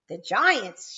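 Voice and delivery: team shouts loudly; shouting. A narrator's reading. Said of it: "shouted the team".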